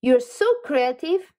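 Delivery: slow, high, gushing praise; excited. Real, not acted. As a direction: lift the voice and savour each word. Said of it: "I'm getting excited about you".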